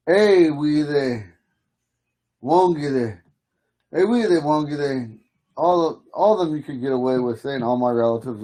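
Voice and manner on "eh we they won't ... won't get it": slow demo. Shown as a demonstration. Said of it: "you hear some people say".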